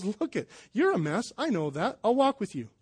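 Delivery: soft and tender, like a kind friend; gentle reassurance. Pretend. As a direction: quietly reassure someone who is a mess. Holy Spirit voiced gently.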